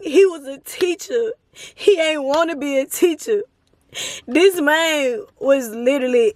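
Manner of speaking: real tears held back while telling it; tearful, choked-up retelling; close to crying. Real, not acted. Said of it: "I'm finna start crying".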